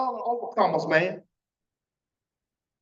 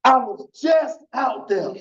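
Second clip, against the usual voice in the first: emphatic slow shout; slower than usual. Real, not acted. Repeating thought for emphasis.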